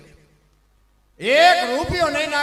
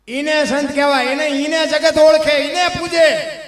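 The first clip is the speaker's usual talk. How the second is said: loud, higher, slowing into the last words; preaching shout; 5 semitones higher, 11 dB louder than usual. Real, not acted. Preacher praising the true saint, loud and slowing. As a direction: proclaim it to the whole hall.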